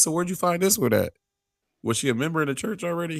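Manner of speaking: high-pitched imitated crowd-work questioning; comedian probing pastor. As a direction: imitate a comic digging for details.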